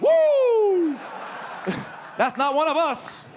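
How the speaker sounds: loud, high whoop of relief; relieved cheer. Retold or imitated. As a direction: cheer out as if your team just won. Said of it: "I'm like".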